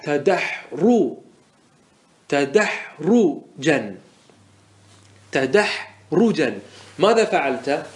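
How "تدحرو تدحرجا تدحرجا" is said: تدحرجا said very slowly, every syllable stretched; drawn-out demo. Shown as a demonstration. Teacher drawing out the word so students hear it, slowly. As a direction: spell out تدحرجا slowly for the class. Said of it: "تقول مصدر تدحرج".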